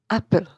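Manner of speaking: loud first syllable in "apple", second one light; stress on first syllable. Shown as a demonstration. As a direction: hit the AP of "apple". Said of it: "the stress is on the first syllable".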